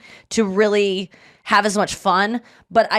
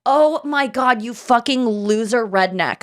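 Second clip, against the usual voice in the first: a mildly put-on Southern drawl, taunting; a lightly done redneck voice, half laughing; redneck accent; 4 semitones higher, slower than usual. Comedian mocking vegan-haters in a lightly done Southern accent. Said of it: "I put an accent on that".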